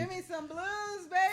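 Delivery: excited shout. Acted. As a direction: belt it out. Calling for the blues.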